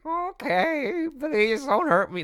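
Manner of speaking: high, drawn-out pleading in mock fear; hammed-up frightened character voice; scared pelican. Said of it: "He's not that scared".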